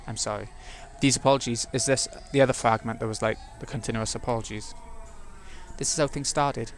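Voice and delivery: story narration. A narrator's reading. Narrator reads game text.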